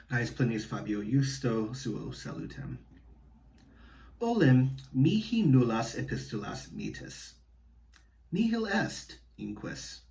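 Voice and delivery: slow, even Latin recitation with pauses between clauses; flat clause-by-clause reading. Shown as a demonstration. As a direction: read it out evenly, marking each clause. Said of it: "so this first one here".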